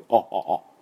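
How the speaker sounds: short "あ" with throat wide open. Shown as a demonstration. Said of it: "喉を".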